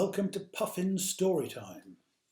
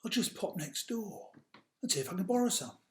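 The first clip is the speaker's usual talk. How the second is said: lightly voiced mouse, casual; a hint of a cheerful little mouse; George the mouse; 5 semitones higher than usual. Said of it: "said George".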